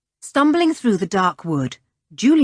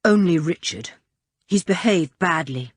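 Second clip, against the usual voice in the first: grim; 2 semitones lower than usual. Acted. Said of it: "said Julian grimly".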